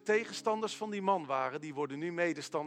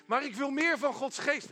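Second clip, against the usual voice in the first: eager plea; 8 semitones higher than usual. Acted. Churchgoer pleads against hushing.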